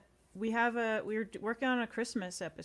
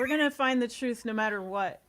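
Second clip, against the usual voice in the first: mock conspiracy rant; 3 semitones higher, 7 dB louder than usual. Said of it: "the Alex Jones conspiracy interventions".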